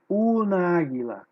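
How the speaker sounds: "una águila" with the a's merged into one; "una águila" as one unbroken word; words run together. Shown as a demonstration. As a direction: let "una" melt into "águila" without a gap. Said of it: "Um som emenda no outro".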